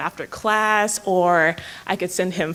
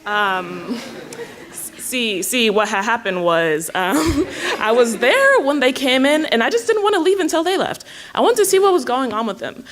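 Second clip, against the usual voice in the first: nervous giggling; 3 semitones higher than usual. Acted. Caught stalking, giggling nervously.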